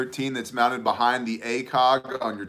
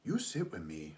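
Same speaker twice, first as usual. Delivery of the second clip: imitated toddler demand; 7 semitones lower, 14 dB quieter than usual. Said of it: "and she goes".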